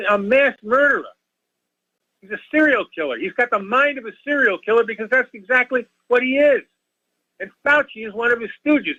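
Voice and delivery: emotional, crazy-sounding. Real, not acted. Caller begging listeners to stop masking, high and worked up. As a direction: plead with the listeners, voice climbing high with alarm. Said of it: "I sound a little crazy when I talk like this".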